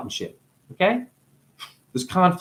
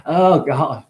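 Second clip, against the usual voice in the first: mock complaining. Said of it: "You'd complain".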